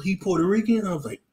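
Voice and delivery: ordinary talk, nothing marked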